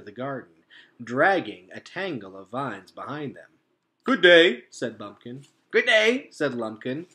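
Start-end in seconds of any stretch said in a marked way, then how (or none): 4.0-4.7 a touch higher and louder, lightly voiced raccoon; raccoon greeting. A narrator's reading. Bumpkin greeting the robot, lightly voiced and polite. 5.7-6.3 much higher, lightly voiced raccoon hello; raccoon greeting. A narrator's reading. Lumpkin greeting the robot in a higher little voice.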